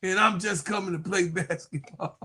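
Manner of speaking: a hint of a player denying it; playful imitation of her pleading innocence; mock player's denial. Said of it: "She say".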